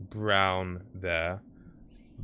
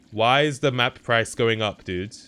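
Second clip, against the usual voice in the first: normal talking voice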